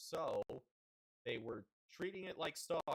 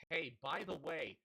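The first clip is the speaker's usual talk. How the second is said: louder, mock-cheery announcement; mocking district voice; 2 semitones higher, 4 dB louder than usual. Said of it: "the district says".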